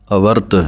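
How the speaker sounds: ਅਵਰਤ said as avart, ਵ joined to ਰ; model pronunciation. Shown as a demonstration. Teacher models avart for students. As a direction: say ਅਵਰਤ as one word, avart. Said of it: "ਅਵਰਤ ਪਾਠ ਬੋਲਣਾ ਹੈ".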